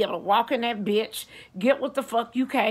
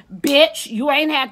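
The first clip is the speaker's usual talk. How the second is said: sharp, loud, high "Bitch"; loud exasperated yell; 4 semitones higher, 6 dB louder, slower than usual. Real, not acted. Fed up with the worker, a loud high yell. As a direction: explode at them.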